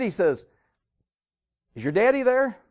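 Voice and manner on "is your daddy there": high, raised-voice impatient question; irritated boss. Acted. Boss asks little kid for daddy, irritated and high. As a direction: act a boss annoyed at getting a child. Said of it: "The boss was really irritated".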